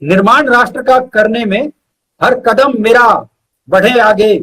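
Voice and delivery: measured verse with pauses between phrases; poem recital. Acted. Poet reciting his own verse to the host, measured poetry recital. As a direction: recite each line slowly and weigh it.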